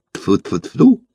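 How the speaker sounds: quick mock spitting sounds; superstitious spitting. A narrator's reading. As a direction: spit three times for luck. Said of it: "суеверно поплевал Соболев".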